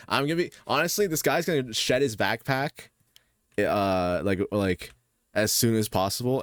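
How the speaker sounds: loud eager rant; excited. Real, not acted. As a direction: push it out with glee. Excited rant about backpack.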